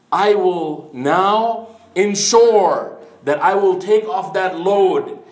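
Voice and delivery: a man resolving to shed his wealth; slow solemn vow. Retold or imitated. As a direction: vow it slowly, each word weighed. Companion's vow after weeping.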